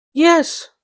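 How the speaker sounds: high, gleeful yes. A narrator's reading. Little Fan answering her brother, gleeful. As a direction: burst out with glee. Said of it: "brimful of glee".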